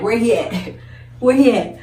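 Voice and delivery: a hint of a brother demanding at the door; lightly voiced big brother looking for him; imitating angry brother. Brother at the classroom door hunting the boy, mild mock demand. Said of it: "My brother was at that fucking door, like".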